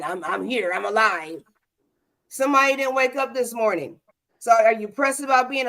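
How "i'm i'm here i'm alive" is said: a flat, half-hearted "I'm here, I'm alive"; a child answering with a tired shrug; deflated answer. Retold or imitated. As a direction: mumble it like you're barely getting by. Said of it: "phrases that I hear".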